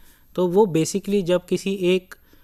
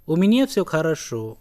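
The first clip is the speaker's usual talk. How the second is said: slow "У меня всё хорошо" with a short pause in the middle; small pause inside; much slower than usual. Shown as a demonstration. Teacher showing the pause in a Russian reply. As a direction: answer "У меня всё хорошо" slowly, with a little break midway. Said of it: "तो बीच में एक छोटा सा pause होता है".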